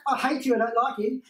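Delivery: acted angry jab; mock hostility. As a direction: play at being hateful. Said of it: "If people talk to you like that".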